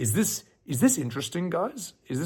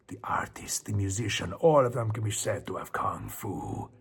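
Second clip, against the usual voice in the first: low, hushed sage with whispered stretches; slow wise master giving his speech softly; kung fu master; 3 semitones lower, 3 dB quieter than usual. Retold or imitated. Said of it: "His Chinese master had a Spanish accent".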